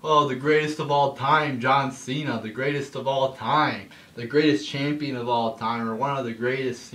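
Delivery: oversell it like a gushing commentator; mocking announcer praise. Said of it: "They call him, like".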